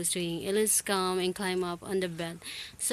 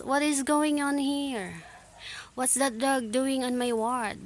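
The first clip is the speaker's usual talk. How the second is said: sharp, high indignant demand; angry; 4 semitones higher than usual. Acted. Ward sister scolding about the dog, indignant. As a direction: scold the intruders. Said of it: "A very angry looking lady".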